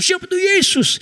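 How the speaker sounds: high shouted question; shouting preacher. Retold or imitated. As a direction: bellow it from the pulpit. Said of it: "dia teriak-teriak". (pendeta berteriak keras)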